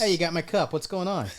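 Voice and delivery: high, hammed-up indignant yell; mock outrage. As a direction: play a ridiculous entitled claimant. Mock entitled owner demanding property.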